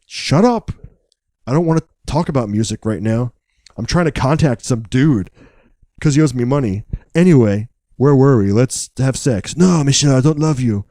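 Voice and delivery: mock French lover, lightly accented; a light French accent, hammed-up lover. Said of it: "That's a good French accent".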